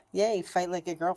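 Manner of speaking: sarcastic little cheer; mocking pep talk; mock happy-go-lucky. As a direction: imitate a perky slogan with scorn. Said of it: "Not that happy-go-lucky kinda".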